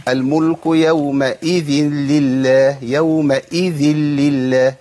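يومئذ with its i dragged long; slow chant, overlong "ee" in يومئذ; mistaken stretched hamza. Retold or imitated. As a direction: imitate reciters lingering on يومئذ. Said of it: "في بعض الناس بيقول".

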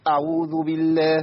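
أعوذ with the ayn clipped off; ayn cut short. Shown as a demonstration. Teacher shows the mistake, ayn in أعوذ cut short. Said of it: "أنا قطعت في العين".

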